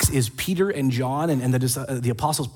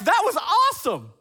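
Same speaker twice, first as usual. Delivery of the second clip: cheerful awesome. Retold or imitated. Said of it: "They're like".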